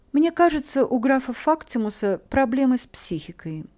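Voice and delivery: high, sweetly plaintive twitter; put-on sad little voice; sad chirping. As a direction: chirp it mournfully, playing innocent. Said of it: "грустно прощебетала я".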